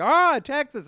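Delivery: excited. Retold or imitated. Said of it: "he's like".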